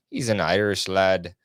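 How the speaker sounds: put-on brief, tentative stab at an Irish accent; amateur Irish lilt, lightly done; attempted Irish accent. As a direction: try on a playful Irish accent. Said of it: "that was a good accent".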